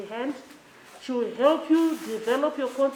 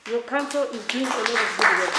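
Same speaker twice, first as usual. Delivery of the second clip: emphatic praise; 6 dB louder than usual. Real, not acted. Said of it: "I'm serious about this and I'll repeat it".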